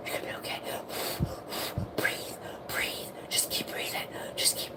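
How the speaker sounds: soft whisper, coaching own breath; calm yourself under your breath; whispering to herself. Retold or imitated. Holding on through the drop, whispering self-reassurance. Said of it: "and I'm like".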